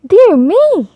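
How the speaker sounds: high, loud alarmed cry; panicked goose. A narrator's reading. The goose cries out in fright at the fox, high and loud. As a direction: squawk it in fright.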